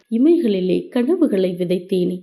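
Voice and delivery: sad love poem. A narrator's reading. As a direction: recite it like a mournful verse. (மெதுவான சோகக் கவிதை வாசிப்பு)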